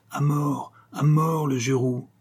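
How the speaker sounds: high-pitched howls for blood; hateful crowd cries. A narrator's reading. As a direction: narrator crying out as an angry mob. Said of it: "hurlait, et l'on entendait ces cris de haine".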